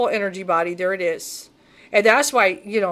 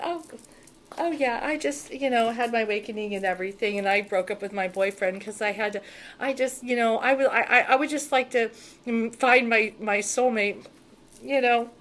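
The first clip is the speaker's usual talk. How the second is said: mock naive lady. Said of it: "like a nice little vulnerable lady".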